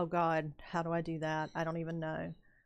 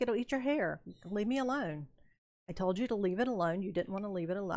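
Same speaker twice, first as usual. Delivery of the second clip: mildly mad retort; 3 semitones higher, faster than usual. Retold or imitated. Guide retelling her scolding of the man with the broom, mildly mad. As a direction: replay a miffed telling-off, mildly exasperated. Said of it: "I was mad with that guy".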